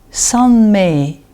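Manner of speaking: Sanmei with E held out; long final E in Sanmei. Shown as a demonstration. Teacher models an example for learners, long E in Sanmei. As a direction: draw out the last vowel of Sanmei. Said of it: "mais nous prononçons E".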